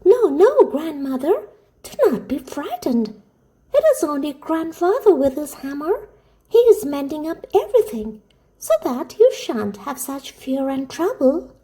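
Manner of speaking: put-on high-pitched little girl reassuring grandmother; soothing child. A narrator's reading. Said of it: "said soothingly".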